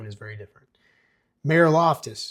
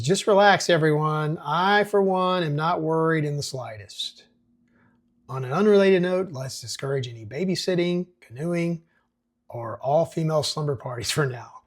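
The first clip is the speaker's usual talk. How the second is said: loud, high-pitched mayor calming a nervous town; pompous mayor; 4 semitones higher, 4 dB louder than usual. Acted. Mayor reassures townsfolk at the meeting, loud and self-important. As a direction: boom out a smug reassurance to the crowd.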